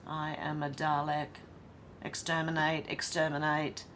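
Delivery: a quick, half-hearted robot Dalek bit. Retold or imitated. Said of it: "Oh yeah, the Dalek voice".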